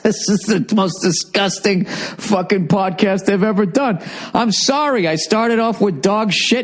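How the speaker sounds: high-pitched, giggly self-mockery; laughing. Real, not acted. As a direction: still laughing at yourself.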